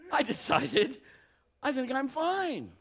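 high, slow, cocky self-assurance; tongue-in-cheek bravado; mock macho confidence. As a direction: play the stubborn dude who's sure he's fine. Mocking his own stubbornness.

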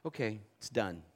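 low, soft, settled pronouncement; hushed, final word from within; inner voice. Retold or imitated. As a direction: say it quietly, as a still small voice. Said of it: "the voice in, in my witness said".

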